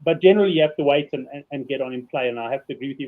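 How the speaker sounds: slushy s from a loose tooth; lisping around a wobbly tooth; slurring. Real, not acted. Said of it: "If I sound like I'm slurring".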